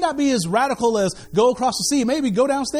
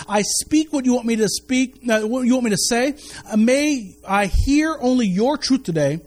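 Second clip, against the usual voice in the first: prayer. Acted. Recites his daily prayer.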